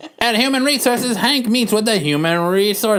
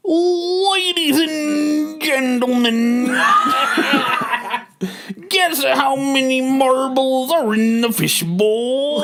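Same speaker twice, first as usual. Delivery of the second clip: laughing through it; 4 semitones higher, much slower than usual. Real, not acted. Laughing through the announcer line.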